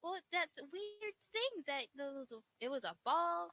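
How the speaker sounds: high, loud, eager rambling; excited questioning. Acted. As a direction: press eagerly for an explanation. Emil presses about the magic.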